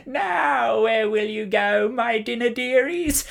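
high, slow witch voice savouring each word; a witch toying with her dinner; gloating witch. A narrator's reading. Witch taunting the children she has caught, high and slow.

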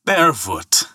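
mildly scathing jibe; scathing call. Acted. Ferryman insulting Thor across the water, mildly scathing. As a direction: toss it out as an insult. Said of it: "he called scathingly".

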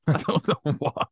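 mock a douchebag sound guy's Texas accent; Texas twang. Shown as a demonstration. Podcaster mocking sound guys, in a Texas twang. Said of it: "they all talk like this, like they're from Texas".

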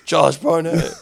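silly, drawn-out French; mock French accent. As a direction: sound out the name like a Frenchman. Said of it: "It sounds like Josh Barnett".

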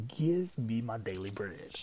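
firm, sure claim, not rude; steady confident request. Shown as a demonstration. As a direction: say it like you expect it. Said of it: "saying in a confident way".

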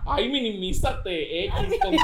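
mock fresita brush-off. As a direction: dismiss them like a posh rich girl. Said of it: "el fresita".

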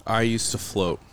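solemn spoken-word lyric reading; spoken song lyrics. Pretend. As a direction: recite a sad pop song like a poem. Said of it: "speak the lyrics to you".

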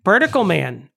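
mock Chicago accent, a little emphatic. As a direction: put on a Chicagoan's vowels. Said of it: "we haven't done a single Chicago accent".

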